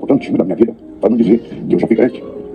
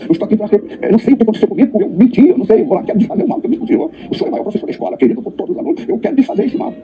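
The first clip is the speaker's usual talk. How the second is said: high, pleading voice of a remorseful father; distraught father pleading; 12 semitones higher than usual. Retold or imitated. A guilty father begs the teacher's forgiveness, high pleading. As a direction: beg forgiveness, pitched well up.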